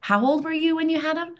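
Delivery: 1 mock astonished. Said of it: "they go".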